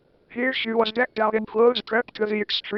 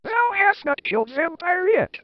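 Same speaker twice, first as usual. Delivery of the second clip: mock angry; 10 semitones higher than usual. A narrator's reading. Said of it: "said angrily".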